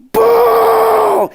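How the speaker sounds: high, loud shouted boo. Retold or imitated. Lone guy at the back, loud high boo. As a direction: boo him off the stage.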